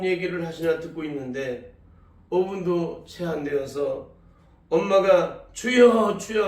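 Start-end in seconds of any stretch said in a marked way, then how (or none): 5.5-6.5 retold wail, louder and higher; crying out. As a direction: cry out to the Lord, half-acted. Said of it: "울부짖으며 외치셨답니다".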